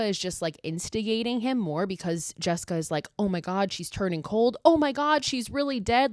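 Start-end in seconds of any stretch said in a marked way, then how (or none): 3.2-6.1 high-pitched imitation of panic, building; mock freaking out. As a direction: act out a fake freak-out, climbing in pitch. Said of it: "Like, she's freaking out".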